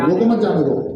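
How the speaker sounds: "रुको मत जाने दो" as one unbroken phrase; all in one breath. Shown as a demonstration. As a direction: run "रुको मत जाने दो" together, no pause. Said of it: "एक ही सांस में बोलूंगा". ("रुको मत जाने दो" बिना ठहराव, एक सांस में)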